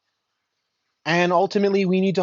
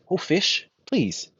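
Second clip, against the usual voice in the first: much higher, bewildered cries of disbelief; a stunned king who can't believe his eyes; the emperor gasping out his questions to the giant fish; astonished king; 11 semitones higher, slower than usual. Acted. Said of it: "he's like".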